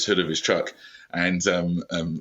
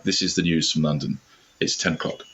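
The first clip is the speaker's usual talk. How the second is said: London newsreader voice; 2 semitones lower than usual. Acted. British guest shows his changed-school accent, London newsreader voice. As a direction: read it like a London news bulletin. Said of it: "then I would change schools".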